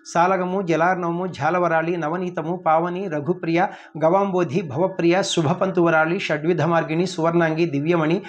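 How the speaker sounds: even, steady list chanted from memory; rote recitation. Shown as a demonstration. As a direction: reel off the names in one level run. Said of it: "ఒక్క రెండు నిమిషాల్లో చెప్పేస్తాను".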